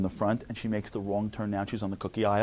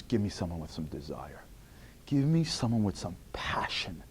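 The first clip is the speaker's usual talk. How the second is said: soft divine plea; 4 semitones lower, 6 dB quieter than usual. Retold or imitated. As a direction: speak as God, intimately. God's voice, quiet plea.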